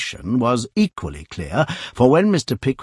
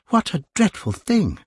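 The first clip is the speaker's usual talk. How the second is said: Pickwick's dismay; 8 semitones higher than usual. A narrator's reading. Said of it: "thought Mister Pickwick".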